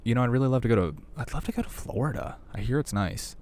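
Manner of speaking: hammed-up daydreaming tourist; imitating vacationers. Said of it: "people are like".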